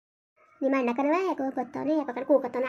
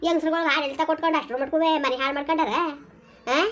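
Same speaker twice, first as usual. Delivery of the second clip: scolding; 3 semitones higher than usual. Acted. Mother berates son about the missing wife and loan, angrily. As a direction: tear into him over the debt.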